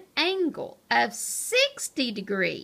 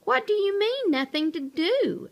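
indignant question; 9 semitones higher, 3 dB louder than usual. Acted. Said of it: "asked Pipsqueak".

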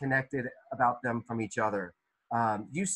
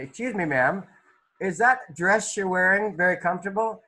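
lightly acted polite question, pitched higher; polite interviewer; 5 semitones higher, 3 dB louder than usual. Teacher pretends to interview the painted lady, mock-polite. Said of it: "let's ask you".

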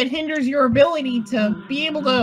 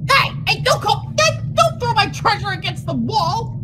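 high protest; 7 semitones higher than usual. Real, not acted. Protesting friend.

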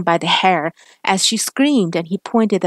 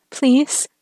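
crying out; 7 semitones higher than usual. Acted. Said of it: "Serena cried".

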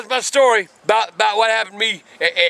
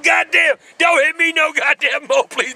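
mock begging; 4 semitones higher than usual. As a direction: ham up begging not to be hit. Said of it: "What kind of moves was he doing".

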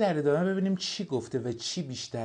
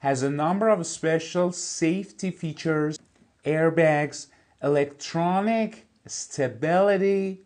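slow, careful reading of an English text; slow textbook reading; 4 semitones higher, 4 dB louder, much slower than usual. Shown as a demonstration. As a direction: read each word out clearly for the class. Teacher reads English text aloud. (خواندن آهسته و شمردهٔ متن انگلیسی)

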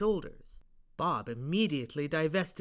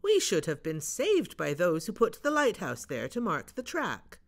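Bob; 4 dB louder than usual. Acted. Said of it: "said Bob".

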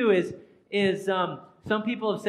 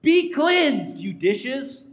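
mock command; 2 semitones higher, 4 dB louder, much slower than usual. Mock quote of a healing command.

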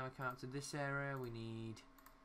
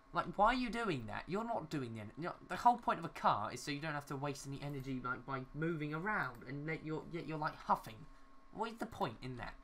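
louder, higher exasperated questioning; annoyed rant; 3 semitones higher, 6 dB louder than usual. Real, not acted. Player ranting at parents' pointless huffing, annoyed and raised voice. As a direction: demand to know what the point is, exasperated. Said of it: "Things that annoy me".

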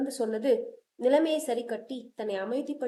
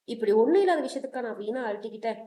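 relieved sigh; faster than usual. Acted. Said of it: "என்று ஆசுவாசமாக சொல்ல".

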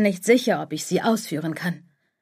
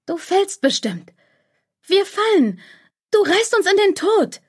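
inner voice climbing higher and louder into panic; voice growing louder; 11 semitones higher, 3 dB louder than usual. A narrator's reading. The fearful inner voice grows louder as Lara's fear grows, rising to a high shout. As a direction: let the fearful inner voice swell, louder with each line. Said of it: "desto lauter wird die Stimme".

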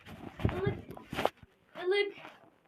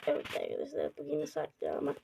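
announcer voice; 6 dB quieter, faster than usual. Pretend. Mock announcer aside to viewers.

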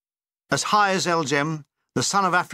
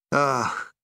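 regretful; 4 semitones lower than usual. Retold or imitated. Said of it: "said Doug regretfully".

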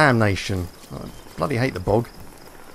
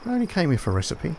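wry deadpan repeat; 5 semitones higher, faster than usual. Real, not acted. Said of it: "repeated after a louder take".

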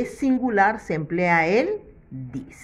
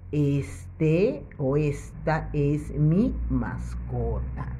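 slow model sentence; 3 semitones lower, slower than usual. Shown as a demonstration. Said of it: "teacher models the sentence".

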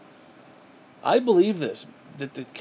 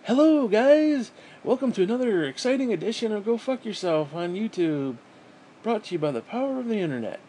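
mock chipper YouTuber; 6 semitones higher, 3 dB louder than usual. Bitter vlogger parodies chipper YouTube intros in a loud fake-cheery voice. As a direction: ham up a peppy host welcome. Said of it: "be fucking fake and be like".

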